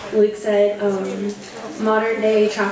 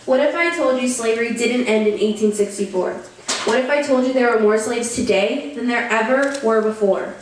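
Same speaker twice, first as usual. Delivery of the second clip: emphatic, rhythmic poetry recital; earnest, measured performance with lifted key phrases; spoken-word poem. Acted. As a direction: recite it like a slam poet, line by line.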